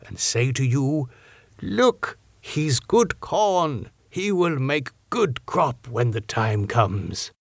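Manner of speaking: a hint of a grave foreign scholar, measured; old Dutch professor. Van Helsing's corn parable.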